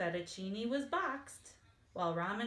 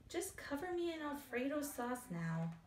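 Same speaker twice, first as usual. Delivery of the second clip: mock sob; 6 semitones higher, 4 dB quieter than usual. A narrator's reading. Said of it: "Fettuccine sobbed".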